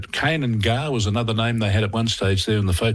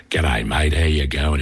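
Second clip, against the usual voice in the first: broad Aussie ocker, pitched lower; ocker accent; 6 semitones lower than usual. Retold or imitated. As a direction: lay on a thick ocker Australian accent. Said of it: "in his best ocker voice".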